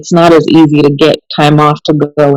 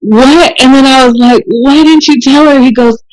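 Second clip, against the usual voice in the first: high, amused, half laughing; laughing disbelief; 7 semitones higher than usual. Real, not acted. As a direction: tell it through rising giggles. Amused disbelief retelling the story.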